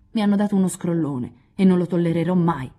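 put-on a touch of an indignant young man's growl. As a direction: spit it out, offended. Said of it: "ringhiò indignato Lori".

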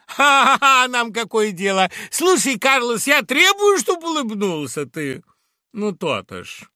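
high, loud laughing demand; laughing Laura. Acted. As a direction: laugh him out of his mood.

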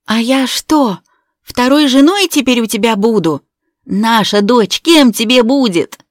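high, loud furious tirade; hysterical accusation. A narrator's reading. Betrayed wife screaming at her husband, hysterical. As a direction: hurl every word at him.

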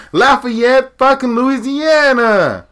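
high, slow, loud drawn-out shout; drawn-out yell. Real, not acted. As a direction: stretch the name out in a yell. Rant peaks on place name.

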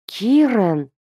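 ordinary delivery, nothing marked

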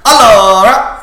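a loud, drawn-out Italian "Allora!"; Italian accent. Retold or imitated. Fan quotes the show's Italian character, loud and slow. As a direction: belt it like an Italian uncle. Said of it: "what about the Italian accent on Master of None?".

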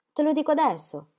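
a fatica. A narrator's reading. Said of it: "confessò Lachelle a fatica".

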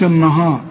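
النهار thickened, with backed vowels; wrong heavy sound. Shown as a demonstration. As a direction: mistakenly make النهار heavy. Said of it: "فما تقولش". (تفخيم خاطئ في النهار)

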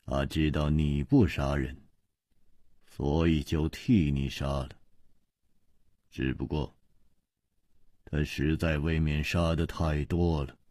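low, soft muttering with long pauses; wry murmur. A narrator's reading. Ji murmuring to Chu about the killings, wryly. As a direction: murmur it bitterly under your breath. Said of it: "喃喃的苦笑说".

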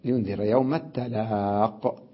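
التلاق said a bit slowly, ending on the qaf; without ya. Shown as a demonstration. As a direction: drop the ya in التلاق. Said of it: "بدون ياء".

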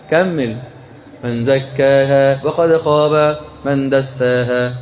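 slow, lilting chant of the verses; slow melodic Quranic recitation. Acted. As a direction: chant the surah slowly with the crowd. Recites surah with audience.

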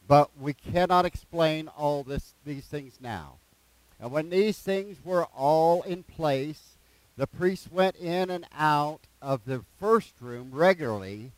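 slow, deliberate scripture reading; measured reading aloud, pausing between phrases. Real, not acted. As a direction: read the passage slowly, drawing out key phrases. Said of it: "I'm gonna read it slow".

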